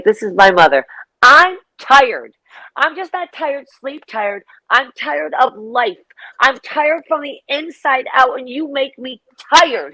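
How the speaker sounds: imitating a dramatically tired mother; mock weary mother. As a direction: ham up a world-weary mum, dragging it out. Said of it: "She was imitating me to someone".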